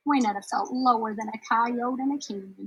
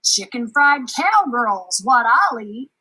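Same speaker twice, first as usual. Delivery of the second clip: booming menacing giant chant; loud angry giant; 4 semitones higher, 8 dB louder, slower than usual. Acted. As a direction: roar like a hungry giant. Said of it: "a loud, angry voice called".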